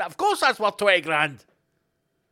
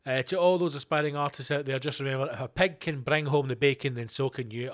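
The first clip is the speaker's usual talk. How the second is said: low reading voice, falling away; measured read-out, pitch sinking to the end; news article read-out; 4 semitones lower than usual. Acted. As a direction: read out the article's closing line. Reads out a news story.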